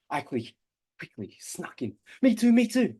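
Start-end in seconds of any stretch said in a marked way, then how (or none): 2.2-3.0 put-on high, pleading little kid; eager child voice. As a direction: chime in like a small child. Child sneaking in claim.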